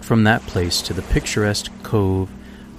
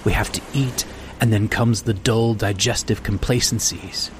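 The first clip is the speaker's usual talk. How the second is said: agitated stranger; 3 semitones higher than usual. Acted. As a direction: let the weary man's bitterness surge up. Stranger's rising tirade.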